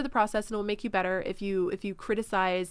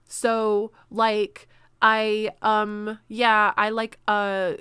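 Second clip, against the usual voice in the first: filler-laden rambling; 6 dB louder, much slower than usual. Shown as a demonstration. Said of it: "instead of doing all of that".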